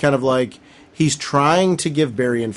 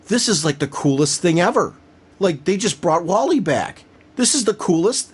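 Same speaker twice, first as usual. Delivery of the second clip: higher-pitched fan enthusiasm; retold excitement; 5 semitones higher than usual. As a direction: relive the thrill, pitch climbing. Relives excitement at the rescue.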